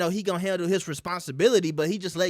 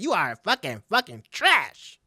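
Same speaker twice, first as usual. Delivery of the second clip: "fucking, fucking trash" stretched slow; mock slow scolding of an ex; slow drawn-out insult; 2 semitones lower than usual. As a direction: drag the insult out, savoring it. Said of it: "She said".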